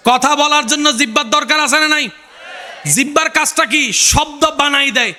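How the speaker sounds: fervent preacher in full cry; impassioned preaching. Acted. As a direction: preach it high and ringing, stretching the phrases. Preaches at high pitch.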